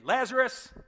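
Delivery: loud, high call into the tomb. Retold or imitated. Mourners calling into the tomb, loud and high. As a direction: shout his name into the cave. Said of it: "next day".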